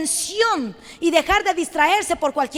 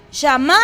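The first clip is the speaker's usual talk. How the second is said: "Shama" with the accent on the last A; stress on final A; 4 semitones lower than usual. Shown as a demonstration. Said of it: "acento en la A".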